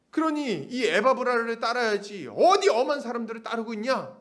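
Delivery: indignant preacher driving the point home; acted angry rebuke. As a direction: reproach them as the exasperated apostle. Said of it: "이렇게 막 화내면서 하진 않았어요".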